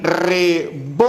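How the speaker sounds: reVOLver, split slowly with weight on VOL; stress on middle syllable. Shown as a demonstration. Teacher contrasting word meanings by accent, revolver with stress on VOL. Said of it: "el acento se encuentra en vol".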